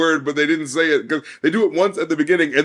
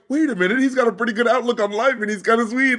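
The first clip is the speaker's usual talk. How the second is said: higher-pitched dawning surprise; pleasant realization; 6 semitones higher than usual. Acted. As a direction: act out suddenly being won over. Acting out a pleasant change of mind.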